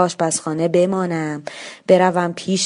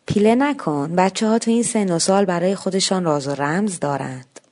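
conciliatory. Acted.

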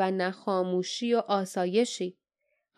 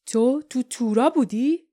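pointed question, louder and rising at the end; blunt, forceful questioning; 3 semitones higher, 6 dB louder than usual. A narrator's reading. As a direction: put it to him point-blank. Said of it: "و خیلی صریح گفت".

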